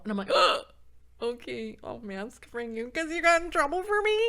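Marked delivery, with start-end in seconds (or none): 0.3-1.2 sharp loud gasp of shock; big theatrical intake of breath; mock gasp. Acting out her shocked reaction to clerk. 1.2-4.2 high, louder gushing reply; hammed-up, high-pitched concession; acted sympathy. Voicing her sympathetic reply to clerk.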